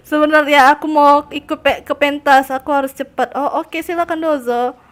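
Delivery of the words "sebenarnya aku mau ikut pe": ordinary delivery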